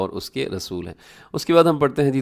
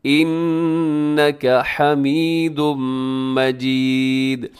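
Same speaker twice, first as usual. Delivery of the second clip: very slow chant with hummed n and m; measured melodic Arabic recitation; darood recitation; much slower than usual. Shown as a demonstration. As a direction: hold the long vowels to the end. Teacher recites darood to demonstrate.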